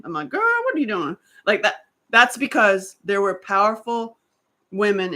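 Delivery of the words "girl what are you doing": put-on high sassy call-out, girl; playful sister calling you out; higher sassy girlfriend voice; sassy Black woman voice. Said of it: "if you hear me speak like a Black woman".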